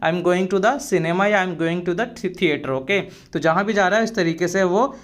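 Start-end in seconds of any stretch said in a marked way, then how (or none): 0.1-2.7 slow, carefully spelled-out English phrase; slow and clear classroom model phrase; slow teaching demo. Shown as a demonstration. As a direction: say each word slowly for the learner. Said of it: "cinema जा रहा है".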